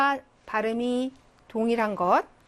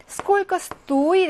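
стоит as STO-it in сколько стоит; сколько стоит with weight on the first syllable of стоит; stress on О; 8 semitones higher, 5 dB louder, much slower than usual. Shown as a demonstration. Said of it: "오의 강세 있습니다".

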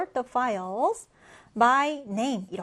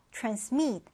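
transMIT, weight on MIT; stress on second syllable; 5 dB quieter than usual. Shown as a demonstration. Teacher models the new word for students, back stress on transmit. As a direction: say "transmit" with a weak start and stressed ending. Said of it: "뒤듬절의 강세를 두고요".

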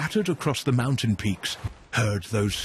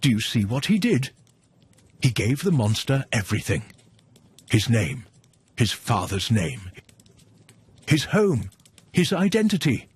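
urgent; 3 dB louder than usual. Real, not acted. Narrator urgently addresses listener.

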